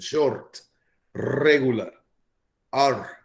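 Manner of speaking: short and regular with a Latin accent. Shown as a demonstration. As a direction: say it like a Latino speaker. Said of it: "I'm going to use my Latin accent".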